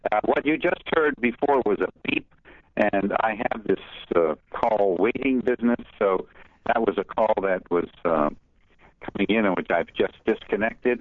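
garbled phone line, like underwater. Real, not acted. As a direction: voice muffled as if underwater. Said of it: "sometimes it sounds like you're underwater".

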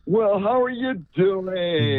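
smooth, slow, charming greeting; suave voice. Acted. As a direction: play the smooth talker, easy and slow. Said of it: "his, his suave voice".

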